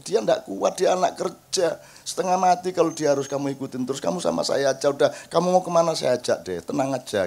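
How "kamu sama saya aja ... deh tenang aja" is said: gentle reassurance. Retold or imitated. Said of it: "tidak pernah saya bentak-bentak".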